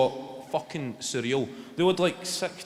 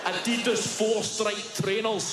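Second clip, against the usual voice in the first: slowing right down for the punchline; slowing comic list; slower than usual. Real, not acted. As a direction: drag each insult out. Building comic list of insults.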